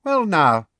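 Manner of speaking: high, hearty opening; Fudge, fatherly. A narrator's reading. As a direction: take charge with loud, high geniality. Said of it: "imagined was a kind and fatherly".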